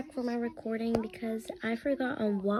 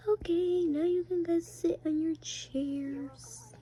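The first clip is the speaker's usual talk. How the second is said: parent voice; 6 semitones higher, slower than usual. Pretend. Parent character seats kids.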